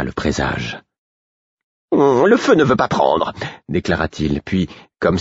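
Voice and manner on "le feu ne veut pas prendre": uneasy realisation. Acted. Murfess alarmed by omen.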